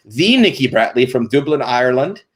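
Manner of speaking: playful, badly faked Irish accent. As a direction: have a clumsy go at an Irish accent. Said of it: "That was a terrible accent".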